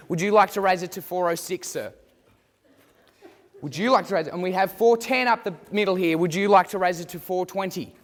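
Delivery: brisk auctioneer patter working the room; auctioneer call. Acted. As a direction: drive the bidding like a real auctioneer. Mock auction, student calling bids.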